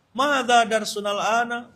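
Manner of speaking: high, drawn-out teacher's question; teacher quizzing class. Retold or imitated. Ustadz asking on first day of class, imitated high teacher voice. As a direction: slowly quiz the class in Arabic. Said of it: "Hari pertama masuk kelas".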